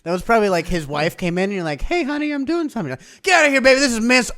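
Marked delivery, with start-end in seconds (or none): 1.8-2.9 raised-pitch mock husband, bluffing his wife; brushing off the wife in a put-on voice; lightly voiced fifties husband. 3.2-4.3 higher, louder shooing off the wife; hammed-up fifties husband; mock dismissive husband.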